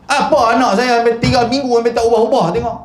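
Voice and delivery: mock indignant mother. Parent complaining about slow progress.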